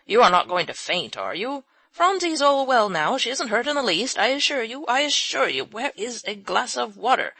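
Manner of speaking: high, loud anxious fussing; an old man panicking that she'll faint; flustered reassurance. A narrator's reading.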